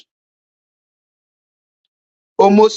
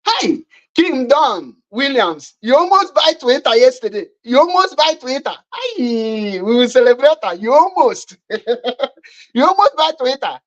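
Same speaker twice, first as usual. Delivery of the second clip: mocking taunt; 4 semitones higher than usual. Real, not acted.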